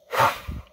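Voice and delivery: sharp puff of breath; blowing. Acted. Narrator acts out the giant blowing the trumpet, sharp blow. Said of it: "he blew".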